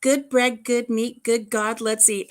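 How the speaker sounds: a hint of a child's sing-song, lightly voiced; little voice. A girl says grace at dinner in a lightly voiced little-girl tone. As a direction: recite it like a lightly voiced eight-year-old. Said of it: "I said in my little voice".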